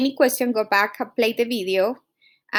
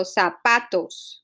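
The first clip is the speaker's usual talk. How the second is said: "zapatos" slowly, PA stressed; teacher demonstrating "zapatos" with weight on PA; 4 semitones lower, slower than usual. Shown as a demonstration. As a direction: say "zapatos" leaning on the middle PA. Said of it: "the stress will be pa".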